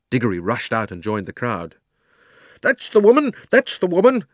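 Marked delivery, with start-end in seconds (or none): 2.6-4.3 high, loud cry of accusation; outraged cry. A narrator's reading. Fat man pointing out the thief, crying out loudly. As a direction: cry it out at the top of the voice. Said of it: "cried the fat man".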